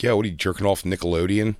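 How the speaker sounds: imitated Philadelphia accent; lightly put-on Philly accent. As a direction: do a guy heckling in Philly-speak. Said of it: "in that Philly accent".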